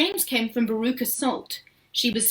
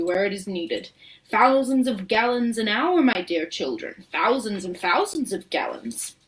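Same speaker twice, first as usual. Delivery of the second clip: lively showman host, lightly voiced; a proud showman showing off his factory; Wonka boasting; 3 semitones higher, 3 dB louder than usual. Showman boasting to the visiting children.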